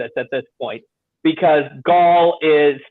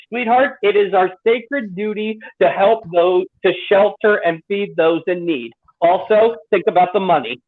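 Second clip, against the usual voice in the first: cheerful country twang; 2 semitones higher than usual. Retold or imitated. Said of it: "They did give her a country accent".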